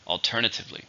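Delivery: "Alternatively" stressed on TER; stress on second syllable. Shown as a demonstration. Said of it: "stressed in the second".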